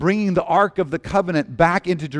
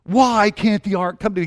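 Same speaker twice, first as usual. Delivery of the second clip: little tantrum; 5 semitones higher than usual. Acted. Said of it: "a little mini tantrum".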